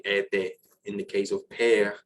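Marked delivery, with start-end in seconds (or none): 0.0-0.6 ete with the final E sounded; French ete. Shown as a demonstration. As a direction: voice the last vowel of ete. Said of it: "I'll say".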